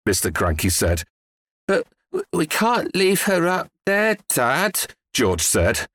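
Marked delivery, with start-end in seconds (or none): 1.7-4.9 put-on higher, stammering boy; anxious young son objecting; hesitant protest. A narrator's reading. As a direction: stumble into a worried plea. Worried boy pleads with father.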